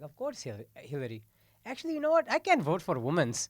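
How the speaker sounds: lightly voiced Indian father; a hint of an Indian dad. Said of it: "he was like".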